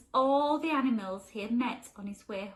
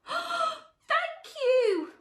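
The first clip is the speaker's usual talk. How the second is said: high, far-off bleating thanks; a delighted goat's high thank you; grateful goat; 5 dB louder than usual. Acted. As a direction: thank him like a little goat. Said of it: "said the goat".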